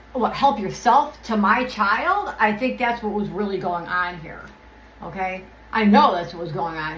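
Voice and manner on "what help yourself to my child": bitter sarcasm. Real, not acted. Sarcastic retort to quoted family.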